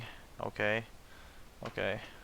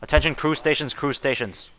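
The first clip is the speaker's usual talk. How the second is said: PA announcement. Shown as a demonstration. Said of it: "repeats announcement".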